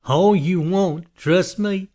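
high, menacing madman relishing the threat; manic killer. A narrator's reading. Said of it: "Johnny laughed manically".

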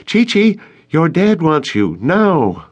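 high-pitched holler from a distance. A narrator's reading. Crystal summons Chi-Chi from the deck, hollering. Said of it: "who hollered from the deck".

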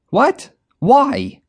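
very high, startled cry; alarmed. A narrator's reading. Manager told to get in the trunk, alarmed cry. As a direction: gasp it out in alarm.

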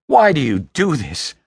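high, loud desperate wail; anguished, high-pitched outburst; voice cracking. Acted. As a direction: plead and protest at a breaking pitch. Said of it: "His voice cracked".

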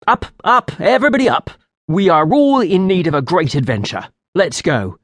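spring up and rouse everyone; sudden eager call to adventure; starting up eagerly. Acted. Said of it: "I said with a start".

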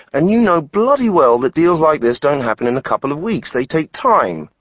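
pushing back hard at the accusation; angry. A narrator's reading. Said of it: "make an effort to keep his voice down".

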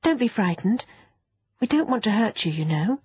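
gently calm a prickly creature; reassuring girl. Acted.

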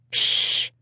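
soft unvoiced shh; whispered shush. A narrator's reading. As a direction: hush them in a whisper. Icefire hushing the others.

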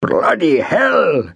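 high, drawn-out trilling exclamation; slow trilled outburst. Acted. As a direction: trill it out slowly. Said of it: "Gupta trilled in Hindustani".

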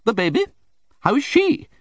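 very high, sharp repeated demand; sharp insistence. A narrator's reading. Aunt insisting the baby is a girl, very high and sharp. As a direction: insist impatiently.

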